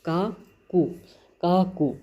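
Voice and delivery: "का कू" split into two syllables; memory-aid pronunciation. Shown as a demonstration. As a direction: sound out "का", then "कू", with small pauses. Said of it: "ऐसे पढ़ेंगे हम इसको". (याद कराने के लिए "का कू" तोड़कर उच्चारण)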